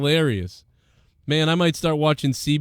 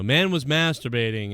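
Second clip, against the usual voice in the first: very dry. Retold or imitated. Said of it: "very dry".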